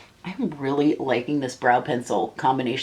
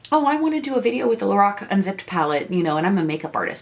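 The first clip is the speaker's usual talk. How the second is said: mock wannabe artist; 3 semitones higher, faster than usual.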